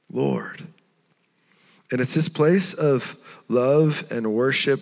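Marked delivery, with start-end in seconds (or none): 0.1-0.7 low, reverent retold address; softly awed, low; loving adoration. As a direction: drop the pitch deep, as in quiet worship. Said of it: "She responds with love and with".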